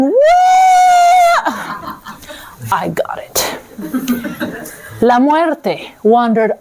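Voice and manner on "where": high, loud exasperated where; shouted where. Acted. Death fed up asking where, high loud shout. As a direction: yell it in disbelief.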